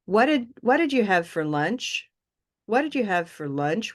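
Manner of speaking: British tune, 'lunch' ending on a rise; British-style intonation. Shown as a demonstration. Teacher showing another intonation, British-style rising question. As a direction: ask it the British way, lifting at the end of 'lunch'. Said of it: "a more British way".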